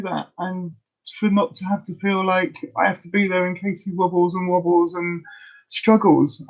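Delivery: pushing through tears to finish the thought; tearful. Real, not acted. Telling viewers how good it felt to see him cook, tearful. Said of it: "I'm so sorry".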